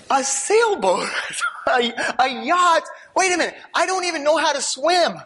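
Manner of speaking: wait, are you serious?; incredulous disbelief. Retold or imitated. Incredulous reaction to the voice.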